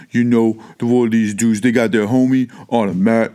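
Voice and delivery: lightly voiced big jock dude; a hint of a macho football player. Teller mimics a jock carrying his friend, lightly voiced. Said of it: "They may be talking a deeper voice like this".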